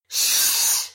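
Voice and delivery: sharp unvoiced shushing hiss. A narrator's reading. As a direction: hush her urgently with a hiss. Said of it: "Chris hisses".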